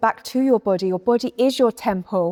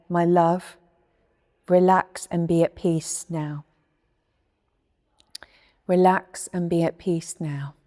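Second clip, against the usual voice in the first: soothing inner voice; 4 semitones lower than usual. Acted. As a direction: soothe yourself like a loving voice. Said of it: "if you could hear my voice and say".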